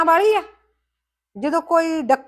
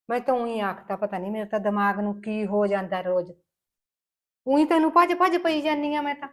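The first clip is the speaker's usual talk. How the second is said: remorseful apology. Acted. Remorseful mother-in-law apologizes.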